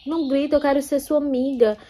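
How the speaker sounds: lightly voiced timid heroine; meek girl voice. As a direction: play the submissive girl begging him to stop shouting. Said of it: "ela dizia".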